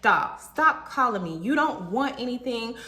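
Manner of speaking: mild, emphatic retold telling-off; a touch of anger, slowed for emphasis; retold blow-up. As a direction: lean on each word, re-enacting being fed up. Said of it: "I blew it up on him".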